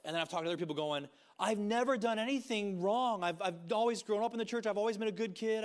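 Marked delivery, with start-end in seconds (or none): 1.4-5.6 higher, louder mock voice of a lifelong church kid; mock goody-goody. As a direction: parody the proud good kid. Imitating self-righteous church kids.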